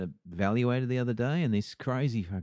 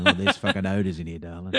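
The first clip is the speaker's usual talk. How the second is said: a hint of a snooty lady, louder; mock posh lady; 4 dB louder than usual. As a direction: sniff at the house like a snob. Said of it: "And went".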